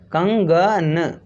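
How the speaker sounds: कंगन stretched out syllable by syllable; very slow demo. Shown as a demonstration. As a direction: spell out कंगन slowly. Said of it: "बिंदी कहाँ पर लगानी है?". (कंगन बहुत धीरे-धीरे)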